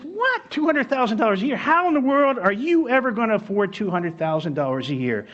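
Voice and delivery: high, fast disbelieving cry of what; shocked friend. Retold or imitated. Friend stunned by the worrier's answer, shocked. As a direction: play the friend aghast at the price. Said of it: "He said".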